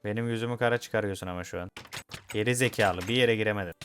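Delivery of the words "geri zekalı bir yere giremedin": angry scolding. Real, not acted. Scolding a stuck villager.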